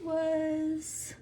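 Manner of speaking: hushed whisper while peering; soft searching whisper. Real, not acted. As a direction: whisper so as not to disturb. Whispering while looking at animals.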